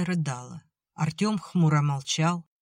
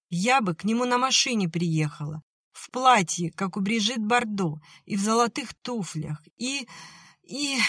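put-on dreamy girl; 6 semitones higher than usual. A narrator's reading. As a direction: lose yourself in the dream until the voice fades.

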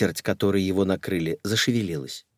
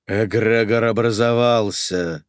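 louder, slow proclamation; booming announcement; 4 dB louder, slower than usual. Acted. Sorcerer to the ladies, booming announcement. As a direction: boom it to the room. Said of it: "зычно объявил Сергей".

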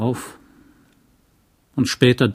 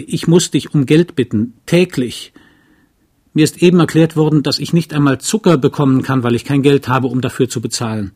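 loud, heated, pitched-up protest; defiant outburst; 3 semitones higher, 4 dB louder than usual. Acted. Wife confronting her husband about money, loudly defiant. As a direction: she spits out every grievance, raising her voice. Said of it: "Ihr Trotz".

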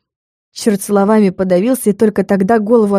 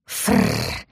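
cat hiss; 9 dB quieter than usual. A narrator's reading. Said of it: "кинулся на нежить кот".

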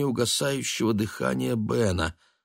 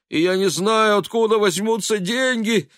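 lament; 12 semitones higher, 5 dB louder than usual. A narrator's reading. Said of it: "причитая".

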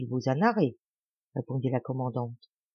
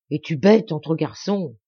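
louder, brusque mayor's jibe; scolding; 6 dB louder than usual. Acted. Mayor chiding the bashful boy, louder jibe. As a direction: tease him loudly for being shy.

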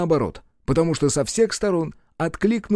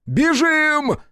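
much higher, urgent shout; yelled; 13 semitones higher, 3 dB louder than usual. Acted. Рух screams at Ольга to flee, much higher. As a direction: cry out for her to run. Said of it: "подскочил к Ольге и заорал".

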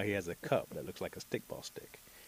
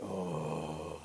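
long, lower disapproving "ohh"; displeased "oh"; 5 semitones lower, 4 dB quieter than usual. Acted. Storyteller voices the women's glare, low displeased "oh". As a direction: draw out a low, ominous "oh". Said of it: "the look on those women faces".

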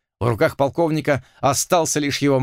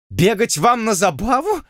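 higher, indignant surprise; affronted cry, pitched up; astonished exclaim; 9 semitones higher than usual. A narrator's reading. Lord cries out at Blood's race idea, higher astonished voice. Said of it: "поражённо воскликнул".

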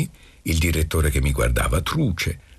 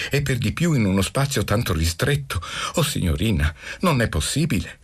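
high-pitched schoolboy begging; whining plea; 7 semitones higher than usual. A narrator's reading. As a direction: beg and whine, pitched up. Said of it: "Basta con codesto piagnucolare".

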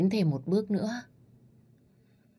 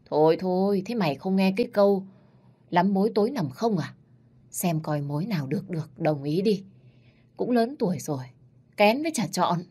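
scolding grandma; 3 semitones higher than usual. Acted. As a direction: tell her off firmly. Grandma scolding about suitors.

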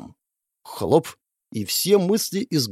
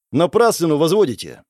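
snapping back. Acted. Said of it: "огрызнулся".

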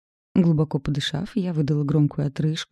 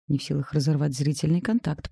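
plain reading voice

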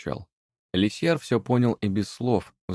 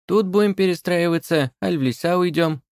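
high, lively house spirit voice; a brisk little domovoi; businesslike house spirit asking; small house spirit; 10 semitones higher, 4 dB louder than usual. A narrator's reading.

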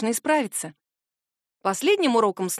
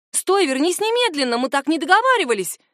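calling after him; 6 semitones higher, 4 dB louder than usual. A narrator's reading. Heroine shouts after leaving Ren.

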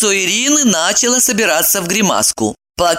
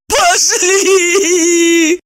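eager; 13 semitones higher, 4 dB louder than usual. Acted. Eager agreement.

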